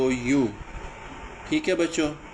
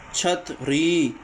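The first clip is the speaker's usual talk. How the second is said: slow sounding out; much slower than usual. Shown as a demonstration. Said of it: "ای کی آواز".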